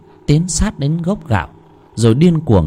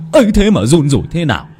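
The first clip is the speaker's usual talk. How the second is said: laughing; 5 semitones higher, 4 dB louder, faster than usual. Acted. Laughing while gloating.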